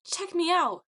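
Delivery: high, loud echo of a brag; high fangirl echo; echoing cheer. A narrator's reading. Echo repeats the boast.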